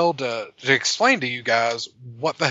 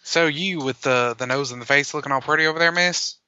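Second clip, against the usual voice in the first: put-on Southern accent. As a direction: ham up a Southern cowboy. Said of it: "That, that accent's horrible".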